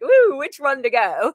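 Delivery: high, slow, playful musing; playful wondering. Retold or imitated. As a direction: muse brightly over the choices. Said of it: "I have to be like".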